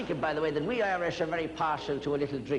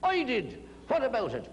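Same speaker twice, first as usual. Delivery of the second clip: mildly acted challenge, pitched higher; higher-pitched mock aggression, falling at the end; aggressive big fella; 5 semitones higher than usual. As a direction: square up like a big man, lightly voiced.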